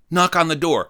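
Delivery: imitated girl giving orders; bossy. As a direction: order him like a bossy classmate. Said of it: "She was so bossy".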